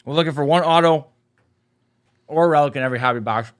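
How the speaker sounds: chewing while talking; chewing gum. Real, not acted. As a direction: talk through a mouthful of gum. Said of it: "I should not have put this gum in my mouth".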